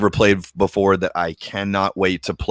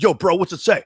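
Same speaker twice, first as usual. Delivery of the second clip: pleading to friend; 9 semitones higher than usual. Pretend. Acting out asking a friend.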